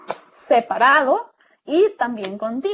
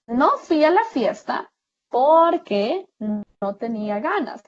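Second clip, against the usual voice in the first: slow, deliberate dictation of the example sentence; slow example read. Shown as a demonstration. Teacher slowly reading an example sentence to students. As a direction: read it out slowly, leaning on porque. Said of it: "Tenemos los ejemplos".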